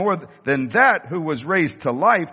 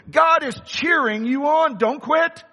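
high, ringing shout from the pulpit; preaching shout; 7 semitones higher than usual. Real, not acted. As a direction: lift it up and shout it to the crowd.

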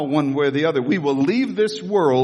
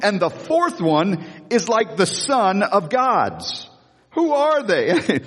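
mock astonished king; 5 semitones higher, slower than usual. Astonished king in the furnace story.

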